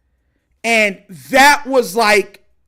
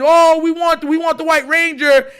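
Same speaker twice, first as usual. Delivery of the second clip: mildly raised, higher crowd voice; half-shouted imitation of a clamoring crowd; mock crowd scream; 5 semitones higher than usual. Crowd begging for the White Ranger, mock scream. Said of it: "everybody's screaming".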